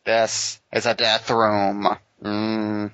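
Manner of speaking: slow gruff Batman growl; Dark Knight Returns Batman. Pretend. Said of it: "talking like fucking Dark Knight Returns Batman".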